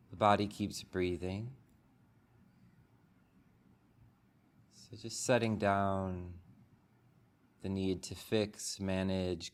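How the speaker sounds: calm, unhurried meditation guide, long pauses between phrases; soothing body-scan delivery with room to breathe; guided meditation. Real, not acted. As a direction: guide the group gently into stillness, phrase by phrase. Leads a guided meditation after the bell.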